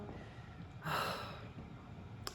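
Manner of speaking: long, soft, breathy sigh; slow exhale of pleasure; contented sigh. Real, not acted. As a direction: let out a long, unvoiced sigh. Enjoying her fireplace.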